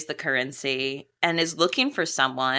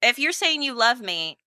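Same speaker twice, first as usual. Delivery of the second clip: higher, insistent lover's challenge; imitating an indignant sweetheart; challenging; 6 semitones higher than usual. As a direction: push back in an acted lovers' quarrel. Acting out the lovers' quarrel.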